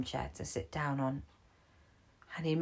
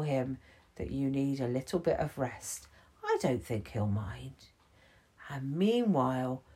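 tuck him in with your voice; soothing Gibbons; 2 semitones lower than usual. Acted.

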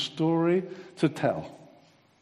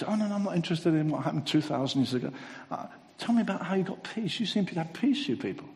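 quick, higher, brushing-off voice of an uninterested outsider; dismissive seeker; 5 semitones higher, faster than usual. Retold or imitated. Uninterested listener brushing off the gospel, fast and higher. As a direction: wave off the old story and press for the secret. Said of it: "We say".

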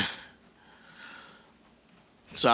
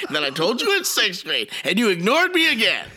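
high whining complaint; 14 semitones higher than usual. Pretend. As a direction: whine like a sulking kid. Continuing whiny rant to mom.

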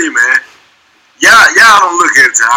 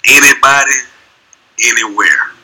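coach's catchphrase. Acted. Quoting a coach's line to the guys, mock white coach voice. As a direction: deliver it as a spaced-out coach's motto. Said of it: "take one of his lines from him".

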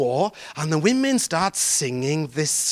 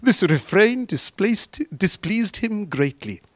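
slow, deliberate scripture reading; plain slow reading; slower than usual. Shown as a demonstration. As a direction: read it again, weighing each word. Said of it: "And the women said".

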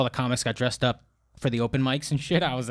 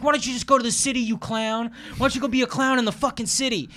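imitating drunk dad; 9 semitones higher than usual. Drunk dad voiced in story.

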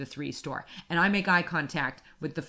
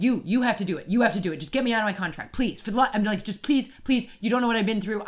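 pleading; 3 semitones higher, faster than usual. Retold or imitated. Customer begging store worker to end her contract, pleading. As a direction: plead insistently, as if retelling it.

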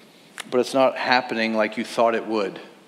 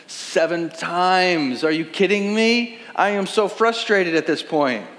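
exasperated; 4 semitones higher, slower than usual. Acted. Exasperated reaction to story.

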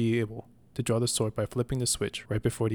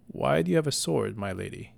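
nervous question; 2 semitones higher than usual. Acted. Old messenger eyeing the damsel's sword, mildly nervous. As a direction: ask it warily, the voice sinking at the end. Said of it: "he asked nervously".

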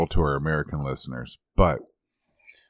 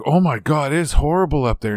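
shocked American; 9 semitones higher, 5 dB louder than usual. Retold or imitated. American guy aghast at the cold.

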